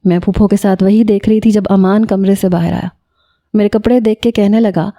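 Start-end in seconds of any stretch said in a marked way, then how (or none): none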